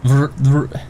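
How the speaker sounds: "Vr, vr" tried as a failed rolled R; attempted rolled R. Shown as a demonstration. Streamer who cannot roll his R's, failed trill attempt. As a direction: try to roll the R and fail. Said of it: "everything is a rolled R".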